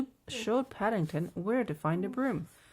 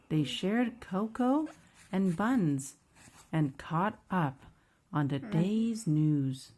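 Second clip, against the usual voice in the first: measured, lively picture-book narration; children's story reading; 3 dB louder than usual. A narrator's reading. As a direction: read it slowly to a small child.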